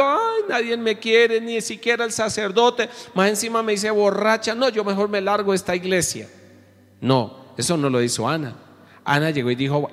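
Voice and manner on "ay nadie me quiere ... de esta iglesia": mock tearful whining. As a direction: play a sobbing woman ready to quit church, overdone. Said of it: "ya llorando".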